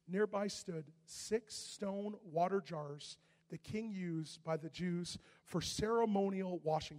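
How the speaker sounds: slow deliberate scripture reading. Shown as a demonstration. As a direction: read it slowly so all can follow. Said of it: "Say ceremonial washing".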